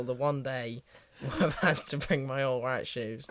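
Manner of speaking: laughing through the words. Real, not acted. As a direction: chuckle your way through it. Laughing at own mishap.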